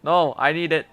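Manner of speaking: protesting. Real, not acted. Protesting to game character.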